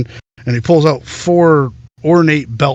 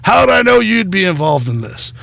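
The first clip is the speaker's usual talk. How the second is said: put-on exasperated old man; 7 semitones higher than usual. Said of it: "he's like".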